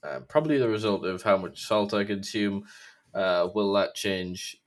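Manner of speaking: slurring round a mouth ulcer; slurred speech. Real, not acted. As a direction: talk carefully past a sore tongue. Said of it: "I sound like I'm slurring".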